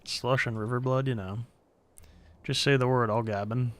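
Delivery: lightly voiced gruff shopkeeper; a hint of a street dealer's brogue; shady potion seller. Voicing the potion seller NPC.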